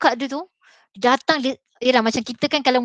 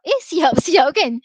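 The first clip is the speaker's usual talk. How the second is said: laughing; 5 semitones higher, 7 dB louder, slower than usual. Real, not acted. Laughing at sudden success.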